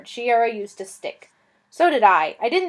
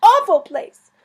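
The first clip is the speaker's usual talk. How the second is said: much higher, loud, slow wailing lament; tearful lament; 12 semitones higher, 10 dB louder, slower than usual. Acted. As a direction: wail over the fallen knight like a tragic heroine. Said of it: "she burst into tears".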